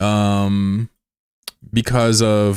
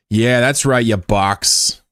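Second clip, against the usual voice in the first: mock taunt; 2 semitones higher, much slower than usual. Taunting the box out loud.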